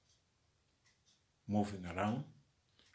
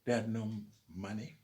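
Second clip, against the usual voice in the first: raised, pressing orator's voice; rousing louder emphasis; 2 semitones higher, 6 dB louder than usual. Real, not acted. Speaker rallies listeners about ancestors' hardship, louder and insistent. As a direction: drive each "They had no" home to the crowd.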